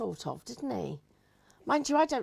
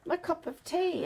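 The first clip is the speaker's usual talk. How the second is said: confused lady caller; 9 semitones higher than usual. Retold or imitated. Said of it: "And she goes".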